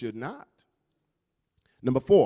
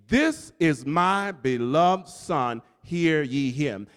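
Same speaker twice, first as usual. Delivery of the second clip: voice from heaven; 2 semitones lower, much slower than usual. Acted. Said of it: "you hear a voice".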